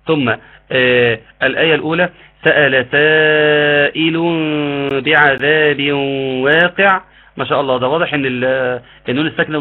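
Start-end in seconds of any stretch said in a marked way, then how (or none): 2.4-7.0 slow chanted Quran recitation; tajweed recitation. Shown as a demonstration. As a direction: recite the verse slowly, drawing out the vowels. (تلاوة مجودة بطيئة)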